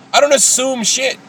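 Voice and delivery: defiant, high. Real, not acted. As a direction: push back hard on the word don't. Defiant outburst.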